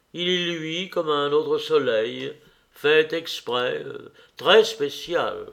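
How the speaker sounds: mock-solemn bookish reading, lightly done; grave pedantic recital. A narrator's reading. The dreamer tells Nastenka his tale, mock-grave reading. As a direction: read it out like a lecture from a book, half playful. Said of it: "je pris une pose grave et pédante, et je commençai comme si je lisais dans un livre".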